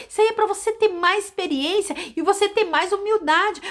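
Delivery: high, forceful preaching reply; firm rebuke. Acted. Missionary answering Ricardo on the phone, high forceful rebuke. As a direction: scold him to make him stronger.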